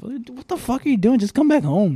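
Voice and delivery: loud, high exasperated outburst; exasperated yelling. Retold or imitated. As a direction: yell it like you can't believe him. Exasperated reply to dad.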